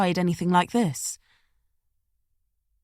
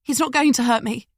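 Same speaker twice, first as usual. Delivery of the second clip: whimpering; 5 semitones higher, 3 dB louder than usual. Acted. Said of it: "Rebecca whimpered".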